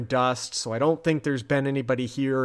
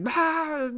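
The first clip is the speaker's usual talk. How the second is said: mock scream. Imitating the terrified man Mulder walks in on, mock scream. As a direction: imitate a terrified shriek at normal volume. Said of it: "He's, like, screaming".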